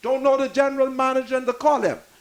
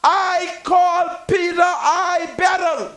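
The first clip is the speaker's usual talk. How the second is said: proud emphatic call-out; 3 semitones higher, slower than usual. Retold or imitated. Telling his children, proud emphasis.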